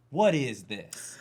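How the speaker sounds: put-on slow, low old lady voice; grandma voice. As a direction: croak it like a cranky grandma.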